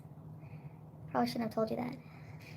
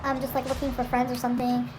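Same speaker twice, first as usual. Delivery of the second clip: intruder quoted; 4 dB louder than usual. Retold or imitated. Voicing the intruder apologising.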